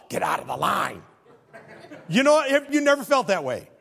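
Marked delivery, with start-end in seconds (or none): 0.1-1.0 impatient yell. Pretend. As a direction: bark it at the dawdlers. Shouting at McDonald's customers.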